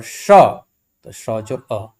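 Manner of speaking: drawn-out letter breakdown; slow spelling out. Shown as a demonstration. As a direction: stretch म जोर ए out slowly for students. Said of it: "वर्ण विच्छेद करते हैं". (धीरे, खींचकर वर्ण बोलना)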